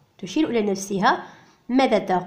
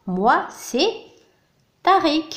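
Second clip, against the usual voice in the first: slow demo; 6 semitones higher, slower than usual. Shown as a demonstration. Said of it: "الولد كذلك يعرف بنفسه فيقول".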